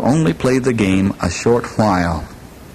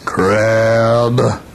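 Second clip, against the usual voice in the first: gruff call. Acted. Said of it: "Crab heard a gruff voice say".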